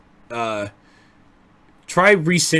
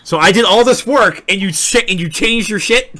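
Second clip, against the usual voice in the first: hammed-up offended complaint; whining about wasted work; mock outrage; 6 semitones higher, 5 dB louder than usual. Mock outrage over changed handle.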